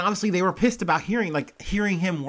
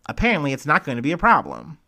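transatlantic news guy; 4 dB louder, faster than usual. Retold or imitated. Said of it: "I made him transatlantic news guy".

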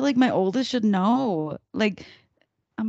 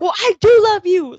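mock pleading; 9 semitones higher, 11 dB louder than usual. Mother pleading with son.

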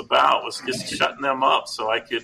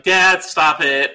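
daughter scolding; 4 semitones higher, 7 dB louder, much slower than usual. Retold or imitated. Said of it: "She's like".

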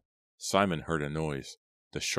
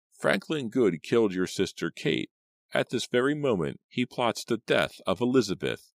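put-on high, swooping croaky old woman; ominous old crone; 7 semitones higher than usual. A narrator's reading. Old Aggie revealing the killer to Simon, ominous croak. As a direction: pronounce it as a grim revelation. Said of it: "Old Aggie continued".

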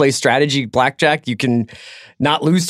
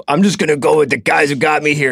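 gruff stubborn coach impression; football coach voice. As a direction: play it like a hardheaded football coach. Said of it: "That's a good football coach voice".

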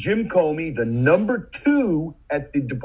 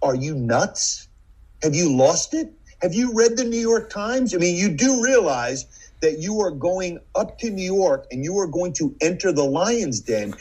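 incredulous; 4 semitones higher than usual. Retold or imitated. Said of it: "takes a step back and goes".

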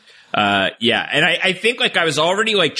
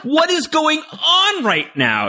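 retold shock; slower than usual. Retelling his shock.

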